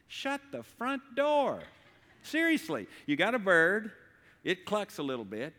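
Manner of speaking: hammed-up disbelief, stretch it out; mock amazement. Preacher marvelling to congregation at eggs, mock astonished.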